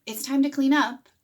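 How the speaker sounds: high, pleading "Is that okay with you?"; mock asking permission. Shown as a demonstration. Parent asking the child's permission, high and pleading. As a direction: ask it like begging for a yes. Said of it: "what you think you said to the child was".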